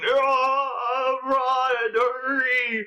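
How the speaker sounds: high, drawn-out slow-motion cry. Acted. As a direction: stretch every vowel like film slowed down. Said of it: "in slow motion, going".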